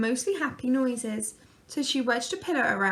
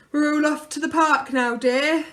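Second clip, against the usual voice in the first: announced; 4 semitones higher, 7 dB louder than usual. A narrator's reading. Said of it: "he announced".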